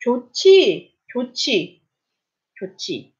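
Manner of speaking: 좋지 with the J turned into CH; 좋지, fading with each repeat; aspirated CH. Shown as a demonstration. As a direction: say 좋지 as jo-chi. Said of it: "지읒 sounds like 치읓".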